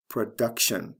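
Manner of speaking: "production" stressed pro-DUC-tion; stress before the ending. Shown as a demonstration. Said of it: "stress is right before the T I O N ending".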